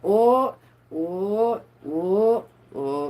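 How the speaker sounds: loud excited bursts of oh. Real, not acted. Streamer reacting to shocking records, excited bursts. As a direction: react like the news just hit. Excited outburst over news.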